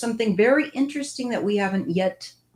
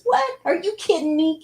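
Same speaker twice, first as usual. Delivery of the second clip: much higher, scoffing disbelief; incredulous critical voice; 12 semitones higher than usual. Retold or imitated. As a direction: play the inner critic mocking the idea. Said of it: "my critical voice that goes".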